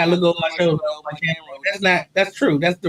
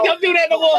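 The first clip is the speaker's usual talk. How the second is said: imitated Jamaican-accented warning, pitched up; 4 semitones higher than usual. Man objecting to being imitated, Jamaican accent, higher. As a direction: scold in a put-on Jamaican accent. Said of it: "I hit him with a Jamaican accent".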